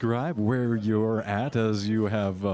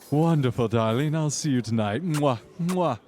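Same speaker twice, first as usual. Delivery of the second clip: socialite voice; 5 semitones higher, 3 dB louder than usual. Acted.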